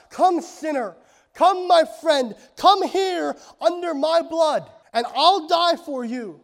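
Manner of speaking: loud, high, beckoning plea; impassioned calling. Acted. Preacher as Jesus calling sinners to him, impassioned calling.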